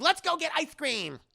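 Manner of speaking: high, bouncy, singsong suggestion; cheery exclamation. Acted. Grandma rallying the kids for ice cream, cheery exclamation. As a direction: switch to sudden high-pitched cheer.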